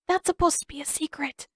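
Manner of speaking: muffled behind a hand. Acted. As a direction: speak through covered mouth. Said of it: "his voice went muffled".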